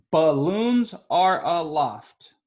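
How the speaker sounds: slow, deliberate read of the haiku line; counting syllables. Shown as a demonstration. Teacher tapping out syllables for the class, slow and deliberate. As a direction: space out "balloons are aloft" so each syllable is heard. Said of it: "Is that five syllables?".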